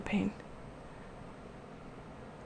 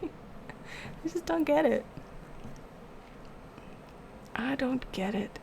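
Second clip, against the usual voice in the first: laughing disbelief; 4 semitones higher, 8 dB quieter, slower than usual. Real, not acted. Baffled, laughing.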